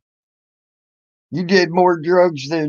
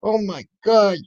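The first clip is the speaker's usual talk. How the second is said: slow, slightly higher mock crybaby whine; mock whining; 4 semitones higher, slower than usual. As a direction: parody her sulking, drawn out. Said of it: "huffy and puffy and crying".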